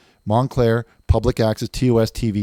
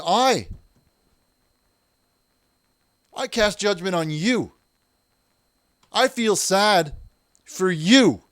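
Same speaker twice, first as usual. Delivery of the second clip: indignant preaching rant; 10 semitones higher than usual. Acted. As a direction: plead and scold like a wronged preacher.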